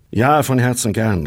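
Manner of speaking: a quick, eager call of agreement. A narrator's reading. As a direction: shout back your hearty yes. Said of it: "rief der soeben Erwähnte".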